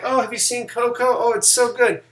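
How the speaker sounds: a fan raving about Coco, mock gushing. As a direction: imitate an overexcited fan. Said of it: "I know a lot of people were like".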